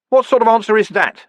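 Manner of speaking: a frustrated outburst at Death; exasperated. A narrator's reading. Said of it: "said Vimes".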